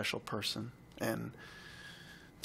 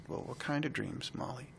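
gentle question; 6 dB quieter than usual. Retold or imitated. Gently asking a dying child.

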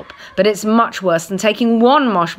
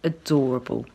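whisper; 6 semitones lower, 5 dB quieter than usual. A narrator's reading. Doting on the kitten.

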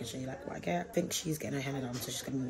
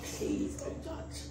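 whispering; 7 dB quieter, much slower than usual. Real, not acted. Whispered plea to viewers.

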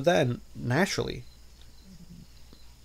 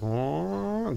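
whoa; 8 semitones higher than usual. Retold or imitated. Reacting to plane takeoff.

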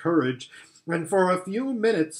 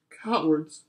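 sobbing. Acted. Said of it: "sobbed Susan".

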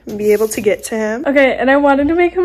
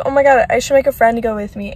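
excited inner voice; much faster than usual. Retold or imitated. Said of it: "I was like".

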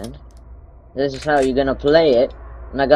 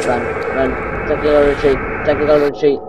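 being chased; 2 semitones higher, 3 dB louder, faster than usual. Real, not acted. Fleeing the monster, panicked.

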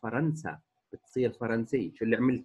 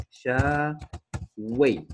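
أعشاوي very slowly, broken into long syllables; syllable-by-syllable demonstration; much slower than usual. Shown as a demonstration. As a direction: pause between the parts of أعشاوي. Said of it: "بدها تصير".

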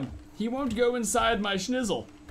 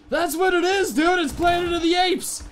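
much higher and louder, shouting the big realization; excited shout; 9 semitones higher, 7 dB louder than usual. Real, not acted. Gamer to his viewers, realizing the idea, excited shout. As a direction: blurt it out like a eureka moment.

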